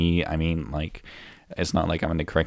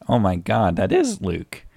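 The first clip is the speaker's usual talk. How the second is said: mock surprise. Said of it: "I don't know why I'm acting surprised".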